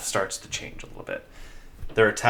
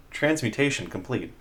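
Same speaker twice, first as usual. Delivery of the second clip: lightly voiced robot, a bit higher; clipped machine announcement, lightly done; 4 semitones higher than usual. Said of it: "you just hear a robotic voice go".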